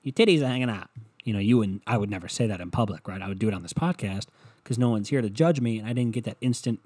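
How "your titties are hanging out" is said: lightly voiced brash catcall; crude catcall. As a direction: holler it at her across the room. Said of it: "you wanna say".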